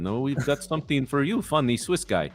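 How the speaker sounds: high, hammed-up Russian accent. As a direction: play a mock Russian heavy. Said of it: "It's Vlad messing with you".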